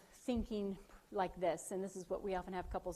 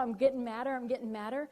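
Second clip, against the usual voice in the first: louder, higher, escalating mock anger; mock getting madder; 4 semitones higher, 8 dB louder than usual. Showing the audience how she amps up at husband: louder mock anger. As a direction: act out your own temper rising. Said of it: "like, amp up like I do".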